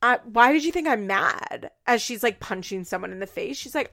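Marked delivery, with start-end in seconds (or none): 0.0-1.7 mock indignant denial; louder, put-on innocent protest; Farrah. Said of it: "doing, like, exact opposites".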